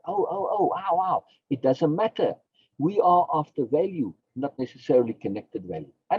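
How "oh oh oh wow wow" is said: mock amazement. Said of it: "it's like".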